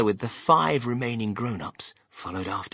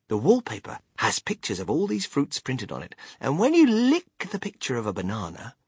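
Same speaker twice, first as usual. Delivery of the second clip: Willy Wonka, explaining; 5 semitones higher than usual. Acted. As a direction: demonstrate each wonder with relish.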